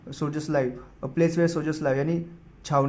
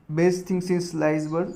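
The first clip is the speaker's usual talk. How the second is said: slow dictation; much slower than usual. Shown as a demonstration. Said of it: "repeating idiom slowly".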